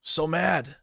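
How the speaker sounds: high-pitched mock tantrum; mocking imitation. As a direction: mimic an angry ranter in a squeaky voice. Continues mimicking the ranting clip.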